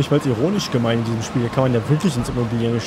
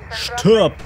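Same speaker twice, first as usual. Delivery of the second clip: mock battle cry; 7 semitones higher, 3 dB louder than usual. Attacking a game enemy.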